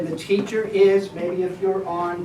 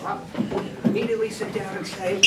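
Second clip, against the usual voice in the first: whisper; 5 dB quieter, faster than usual. Shown as a demonstration. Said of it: "so you can barely hear it".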